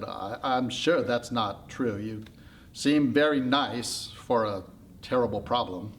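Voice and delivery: slow, tender consoling; gentle reassurance. Acted. Pandora consoling the little bad haircut, gently. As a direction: comfort it without hurrying.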